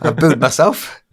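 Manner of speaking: hammed-up self-booing; mock booing. Shown as a demonstration. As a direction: ham up booing yourself. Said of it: "Have a go".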